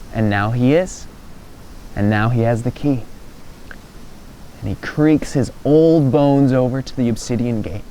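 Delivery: low, measured storytelling with long pauses; suspense narration. A narrator's reading.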